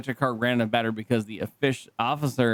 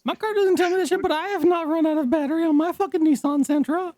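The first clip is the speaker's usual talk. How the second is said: exasperated; faster than usual. Real, not acted. Exasperated rant about his car.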